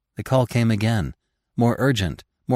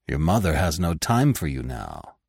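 severe; 5 semitones lower than usual. Acted. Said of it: "said Bambi severely".

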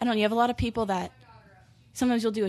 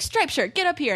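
retold crowd call; 7 semitones higher than usual. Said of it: "still, like, shouting".

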